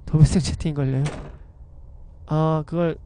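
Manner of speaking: ordinary talk, nothing marked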